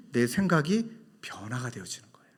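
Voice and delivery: breathy whispered aside. Real, not acted. Preacher whispering to the congregation about change. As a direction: drop to a whisper to land the point.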